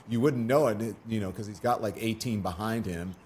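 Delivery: dry sarcastic aside. Real, not acted. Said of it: "That was sarcasm".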